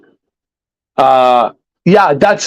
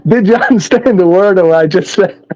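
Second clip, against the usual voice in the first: lightly voiced backwoods moonshiner; hillbilly voice; 2 semitones higher than usual. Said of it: "if we're gonna go hillbilly all the way".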